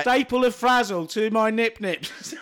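giggling through the words; laughing while saying it. Real, not acted. Silly joke through laughter.

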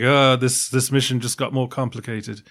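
a lightly done, bad British accent as James Bond; mock a British spy with a weak British accent; terrible British accent. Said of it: "terrible British accent".

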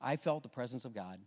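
softly, the son's hushed words; quiet retold son. Pastor quietly quoting his son's words at camp. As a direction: voice dropped, awed and low. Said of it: "He's like".

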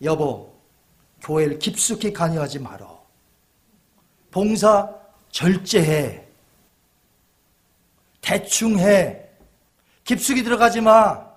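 low, hushed tempting voice; devil whispering to spouse. Acted. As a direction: coax the spouse away from church, voice dropped low. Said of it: "마귀는 속삭입니다".

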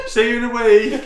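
mock farewell call. Dropping a mate in the wasteland, mock farewell call. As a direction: call it out as if leaving someone behind.

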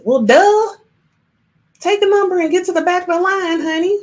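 high, fast sassy clapback; sassy retort. Acted. Speaker scoffs at the excuse of someone too proud, sassy. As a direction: snap back with a loud, high "well, duh".

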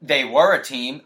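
pointed correction, leaning on "were"; stress on WERE. Real, not acted. Corrects tense of co-host.

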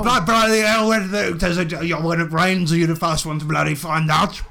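lightly voiced sweary blusterer; blustering Willie Dynamite figure. Willie surprised by the party, mild blustering exclamation.

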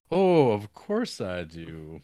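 drawn-out knowing answer; mock sly bailiff.

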